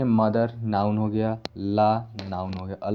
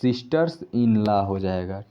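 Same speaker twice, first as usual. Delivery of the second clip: slow plural; 3 semitones lower, slower than usual. Shown as a demonstration. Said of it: "तो सिस्टर में एस लगेगा".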